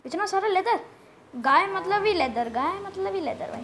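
high, loud, singsong delight; gleeful excitement. Real, not acted. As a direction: crow over the loot. Delighted by a big leather haul. (खुशी से चहकते हुए)

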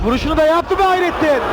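sudden shout at a big chance. Real, not acted. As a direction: yell it out in the booth. Big shot and save, commentary.

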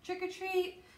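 small, high-pitched "Trick or treat"; a timid little high call; soft trick-or-treat. A narrator's reading. Lance at the man's door, asking softly. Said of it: "he said very softly".

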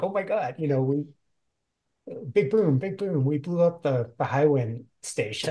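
thrilled at the blast; giddy. Retold or imitated. She's like, on cloud nine.

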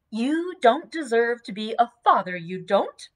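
mild mock dignity of a young wife; dignified matron. Dot scolding John with mock matronly dignity. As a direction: chide him like a seasoned matron. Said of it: "with all the dignity of an experienced matron".

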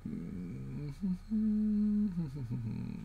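long soft hum, rising then falling; a drawn-out, quiet thinking hum; thoughtful hum. Real, not acted. Puzzling over code alone.

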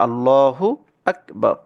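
আল্লাহু আকবার recited with a thick lam in আল্লাহু; heavy lam recitation. Shown as a demonstration. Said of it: "জবর, তাহলে".

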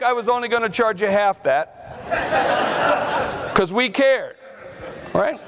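laughing joke. Real, not acted. Joking about Kodak's fair price.

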